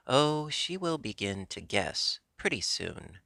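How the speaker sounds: cheerful. Acted. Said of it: "said the king cheerfully".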